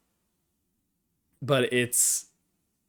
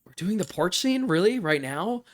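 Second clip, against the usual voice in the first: retold surprise; 3 semitones higher than usual. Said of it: "I at first was a little bit like".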